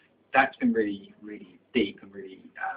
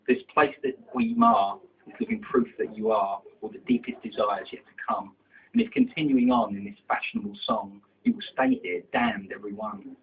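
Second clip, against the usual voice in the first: driving, rhythmic verse delivery; poetry recitation; 5 dB louder than usual. Acted. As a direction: recite rhyming verse, punching the line openings. Recites second poem.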